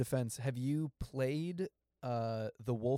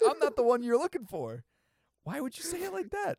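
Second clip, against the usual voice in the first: mock delivery; 13 semitones higher, 4 dB louder, faster than usual. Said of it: "you're like".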